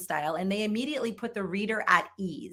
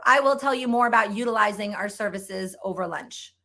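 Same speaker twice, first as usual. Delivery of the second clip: stiff robotic recruiter; 4 dB louder than usual. Shown as a demonstration. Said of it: "I'm being dramatic for emphasis".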